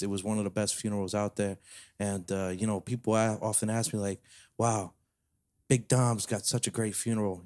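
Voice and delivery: lightly played New York mobster bragging as Uncle Danny; New York mafia accent. Telling a cohost about Uncle Danny in a light New York mafia accent. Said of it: "in a weird little accent".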